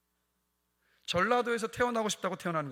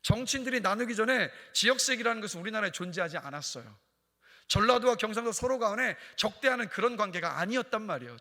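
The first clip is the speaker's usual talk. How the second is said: raised, insistent pulpit voice; emphatic sermon delivery; forceful preaching; 5 semitones higher, 7 dB louder than usual. Real, not acted. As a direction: press the argument on the congregation.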